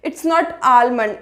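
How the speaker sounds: almond with the l sounded, al-mund; slow al-mund with a clear l; almond said the mistaken way with l; wrong almond. Shown as a demonstration. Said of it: "हम इसको बोलते हैं आलमंड".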